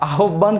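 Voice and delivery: first আহ্বান as "a-hob-ban", second as "ao-ban"; both pronunciations contrasted. Shown as a demonstration. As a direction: say আহ্বান as spelt, then as spoken "ao-ban". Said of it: "কিভাবে আহ্বান হলো".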